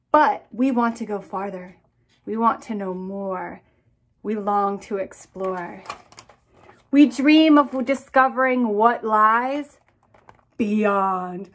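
storybook narration building to a hushed beyond; dramatic read aloud. A narrator's reading. Author reading space book to classrooms, building wonder. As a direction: draw the kids out into space with wonder.

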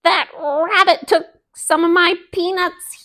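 angry fox. Acted. Fox fuming at the rabbit for stolen peanuts, angry and loud. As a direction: let the fox blow up over his stolen peanuts. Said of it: "Brer Fox was mad".

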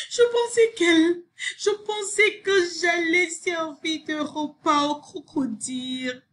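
high excited exclamation; high-pitched outburst; crying out. A narrator's reading. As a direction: exclaim it high, easing down towards the end. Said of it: "cria Sophie".

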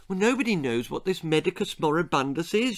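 panicking. Acted. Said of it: "she panicked".

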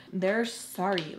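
put-on slow, insistent teen backtalk; a little attitude. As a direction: draw it out with a touch of attitude. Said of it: "have a little attitude with her".

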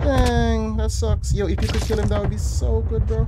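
urgent and keyed up; excited. Real, not acted. Excited during firefight.

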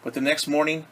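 picture-book read-aloud for a class; lightly lilting storyteller voice; story narration. A narrator's reading. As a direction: read it gently like a storybook to children. Reads picture book to children.

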